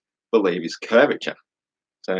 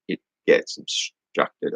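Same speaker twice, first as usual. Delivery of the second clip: high, slow, whispered mock voice; mocking whiny voice; 4 dB quieter, much slower than usual. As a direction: parody the opponent's dumb claim. Mocking the opponent's claim.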